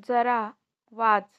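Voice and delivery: loud order to read; firm command. Shown as a demonstration. Teacher tells the pupil to read, loud. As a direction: push them to read. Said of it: "repeat drill, first take".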